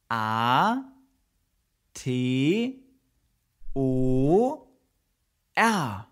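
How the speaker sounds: V E N T I L A T O R, one letter at a time with pauses; spelling it out. Shown as a demonstration. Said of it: "teacher spells Ventilator". (Ventilator langsam buchstabiert)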